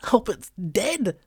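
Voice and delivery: dog whining to Susie. A narrator's reading. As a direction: whine it out slowly. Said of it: "I whine at her".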